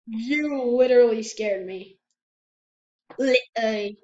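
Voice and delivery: put-on slow, drawn-out Australian accent. Gamer tells teammate he got scared, in Australian accent. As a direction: slip into a casual Australian accent. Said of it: "I don't know why I'm talking Australian".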